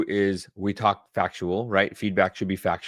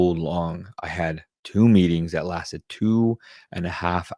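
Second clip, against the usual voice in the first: mock dramatic rant; 2 semitones lower than usual. Shown as a demonstration. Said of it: "we stretch out our words".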